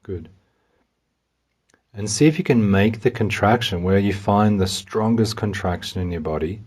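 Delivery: measured meditation voice, pausing between steps; walk the listener calmly through each step; guided meditation. Real, not acted. Guide has listener open an imagined window to release tension, calmly.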